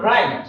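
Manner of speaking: রাইট with a clear initial r; R pronounced. Shown as a demonstration. Teacher giving a WR example, r sounded in রাইট. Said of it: "এখানে আর এর উচ্চারণটা হবে".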